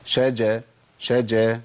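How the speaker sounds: clean sh then open ja in شجا; correct shin. Shown as a demonstration. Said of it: "يبقى أقول إيه؟".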